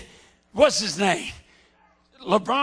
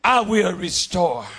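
solemn voice of the Lord; 4 semitones lower, slower than usual. Retold or imitated. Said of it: "Joel said".

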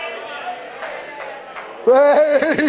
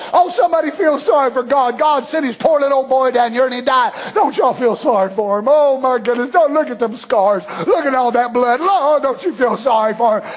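mocking sentimental preachers. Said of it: "That's the way they preach it".

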